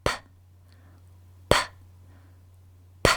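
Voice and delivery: short unvoiced puffs of P, lips pressed then released; P sound demo. Shown as a demonstration. Teacher showing kids the P sound, crisp puffs. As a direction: pop out each "p" as a small breath of air. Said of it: "like this".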